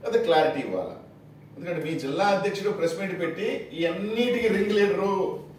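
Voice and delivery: ordinary delivery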